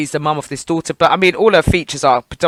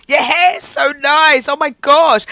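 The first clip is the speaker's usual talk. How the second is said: high, loud mimicry of an over-keen admirer; gushing woman; 9 semitones higher, 5 dB louder, slower than usual. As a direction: gush it out in a put-on high voice. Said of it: "That's what the woman was doing".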